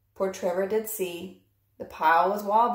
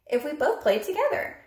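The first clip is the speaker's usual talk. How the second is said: Trevor pleading; 8 semitones higher than usual. Acted. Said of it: "Trevor said to Pig".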